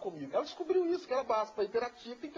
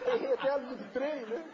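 laughing; 5 semitones higher than usual. Real, not acted. Still laughing.

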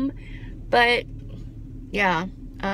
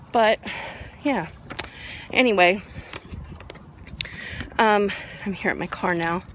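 out of breath from the hill; winded after the uphill walk; heavy breathing. Real, not acted. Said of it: "Sorry for the heavy breathing".

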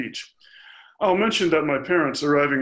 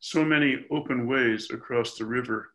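poetry reading. Acted. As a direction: give each phrase its own line, with pauses. Reads next poem aloud.

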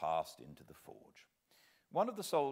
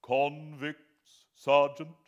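higher, louder quick question; matter-of-course; 7 semitones higher, 12 dB louder, much slower than usual. Acted. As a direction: ask it as an everyday matter. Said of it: "in a matter-of-course way".

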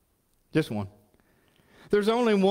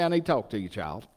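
stern God; 4 semitones lower than usual. Acted. God voiced correcting a believer.

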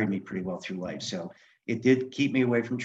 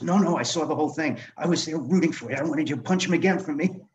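higher, eager cheering voice; gleeful headmaster; 6 semitones higher than usual. Retold or imitated. Headmaster admitting he rooted for the fight, higher and gleeful. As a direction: cheer him on like a delighted fan. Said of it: "He goes".

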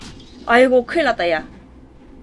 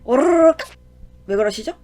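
put-on peekaboo baby talk; 4 semitones higher than usual. Gamer plays peekaboo with a baby, high cooing. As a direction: coo at a baby to make it laugh.

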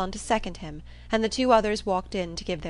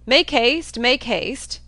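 loud, raised call from the stairs; calling out hurriedly; 5 semitones higher, 8 dB louder, much slower than usual. A narrator's reading. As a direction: urge them along at full voice. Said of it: "calling out to Miss Moreland to be quick".

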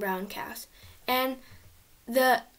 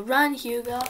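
a mildly raised shout to run; yell; 4 dB louder than usual. Acted. Max warns Hugo to flee, mild mock yell. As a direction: call out the warning. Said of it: "to yell".

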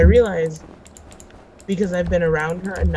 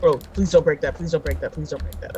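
panicked pleading; 4 semitones lower than usual. Real, not acted. Friend digging near the ice.

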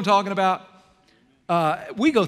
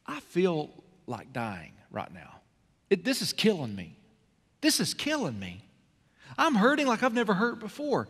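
anguished confession; 2 semitones higher, 3 dB quieter than usual. Retold or imitated. Jesus telling his friends he is dying inside, softly. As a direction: let the grief pull the voice down. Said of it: "Jesus looked at his friends and he said".

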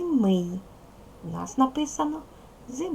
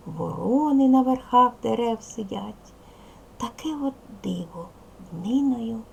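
put-on expressive poem reading for children; poem recitation; 2 semitones higher than usual. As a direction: recite the winter poem with lilting, varied emphasis. Послухайте, будь ласка, вірш.

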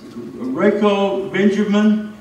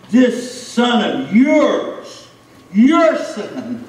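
slow, bitter stress on yours; scornful older brother; 4 semitones higher, 3 dB louder, much slower than usual. Acted. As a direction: drag out "this son of yours" with contempt. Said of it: "Can you hear the anger".

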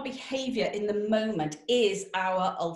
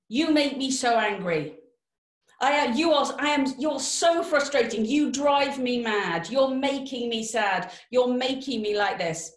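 imitating someone blaming others, raised and loud; mock angry complaint; 4 semitones higher, 4 dB louder than usual. To someone they blame, a mock frustrated outburst. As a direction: play the frustrated blamer, voice up and pushed. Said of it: "Have words like this ever come out of your mouth?".

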